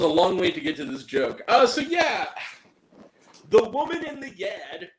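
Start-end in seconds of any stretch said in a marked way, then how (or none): 3.5-4.9 title said Boston style, Yad for Yard; Boston accent. Pretend. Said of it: "It's Angry Grant time".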